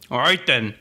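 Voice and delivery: mock British bloke asking someone out; British accent. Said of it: "in Great Britain".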